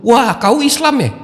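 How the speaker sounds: high, drawn-out imitation of an accuser; mock accusation. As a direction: imitate someone pointing out a culprit. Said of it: "mereka langsung dituduh".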